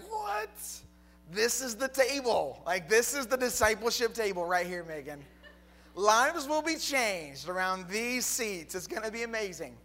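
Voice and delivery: high, loud, gushing over the table; hyped up like he found treasure; excited gushing. Retold or imitated. Preacher acting out his excitement to his wife.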